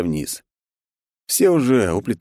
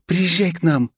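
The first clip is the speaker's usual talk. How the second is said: sly vampire invitation; 12 semitones higher than usual. Acted.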